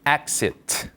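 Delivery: "exit" in careful English, crisp final t; English pronunciation. Shown as a demonstration. Teacher shows learners how the sign reads, careful English "exit". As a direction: model "exit" as two clear syllables, falling. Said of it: "한번 보시면 발음은".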